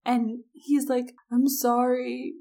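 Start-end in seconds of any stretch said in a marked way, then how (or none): 1.3-2.3 put-on drunk remorseful guy. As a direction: drag out the apology like a guilty kid.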